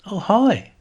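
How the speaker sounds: high, loud, dramatic greeting; dramatic exclamation. A narrator's reading. Nicola bustling in to greet the visitor, dramatic exclamation. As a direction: exclaim it with a big theatrical lift. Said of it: "she exclaimed, dramatic".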